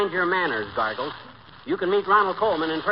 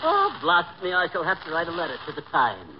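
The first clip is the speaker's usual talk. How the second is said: badly faked English gent; mock British accent. Husband keeping up his act for the doctor, mock British. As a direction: put on a British toff's manner. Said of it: "you have no idea how awful you sound".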